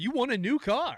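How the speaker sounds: high, loud sales-pitch voice; mock spam caller. Friend mocking a spam caller, loud hyped sales voice. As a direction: pitch it like a pushy car-sales robocall.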